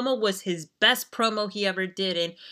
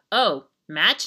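mock, baffled, bewildered voice; 3 dB louder than usual. Retelling a wrestling match moment, imitating Tommy Dreamer's WTF voice. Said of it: "a W T F voice".

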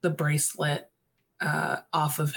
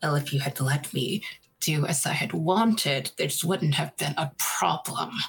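speaking through gritted, clenched teeth. Voicing a character's retort during a tense conversation: speaking through gritted teeth. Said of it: "he says through gritted teeth".

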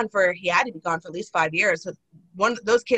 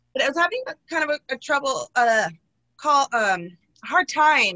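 stuttering, stammering speech; 5 semitones higher than usual. Speaker explaining the stories she wrote notes about, stuttering. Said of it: "I don't know why I'm stuttering".

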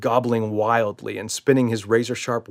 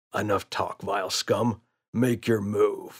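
low, quiet, villainous snarl; 5 dB quieter than usual. Uncle Dave answers his gloating opponent, snarled. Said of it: "snarled Uncle Dave".

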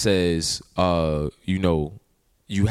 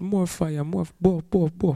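put-on, bad Jamaican accent, pitched very high; 10 semitones higher than usual. Signing off with another speaker, joking: bad jamaican accent. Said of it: "my bad Jamaican accent again".

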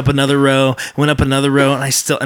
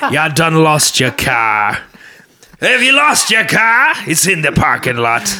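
put-on, swooping pirate voice; 2 semitones higher than usual. Hosts pitch a joke parking app; speaker demos it in a pirate voice. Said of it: "This app will tell you in a pirate voice".

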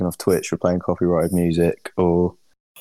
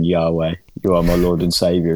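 ordinary delivery

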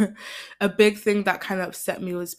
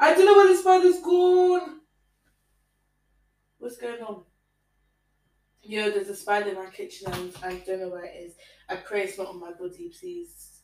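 frightened, anxious, scared talk with gone drawn out; 2 semitones higher, 3 dB louder than usual. Speaker losing track of a spider in the kitchen, scared. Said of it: "Oh my God, I'm scared".

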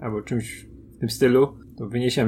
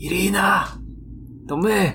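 high, quiet, hushed shout. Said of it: "Jak krzyczę tak, e, tak cichutko".

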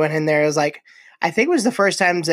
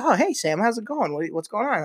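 acted, earnest, genuinely friendly tone, pitched up; 5 semitones higher, 5 dB quieter than usual. Acting out how a friend would answer, sounding so sincere. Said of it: "He'd be so sincere".

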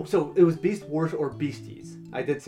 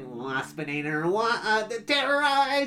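buzzing, nasal voice pitched much higher; 9 semitones higher than usual. Describing a show's villain, the speaker does the Waspinator voice. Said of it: "he's constantly buzzing, and it's, like, nasally".

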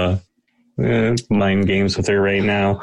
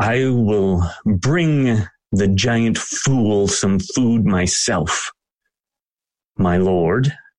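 grudging, barely polite, bristling delivery. Voicing a shield maiden answering her lord after a dirty look: bristling shield maiden, barely polite. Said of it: "she bristles quite a bit".

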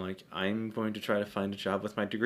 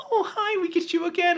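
mock sunny, cheery voice, very high and loud; 7 dB louder than usual. Retelling what returning restaurant customers said: imitating customers talking happily. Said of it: "Why are you talking so happy?".

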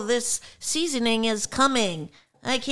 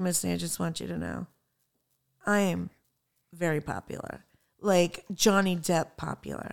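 put-on serious tone, lower and quieter; 6 semitones lower, 5 dB quieter than usual. Retelling what a friend said across from the speaker at a bar: imitating Larry being so serious. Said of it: "so serious".

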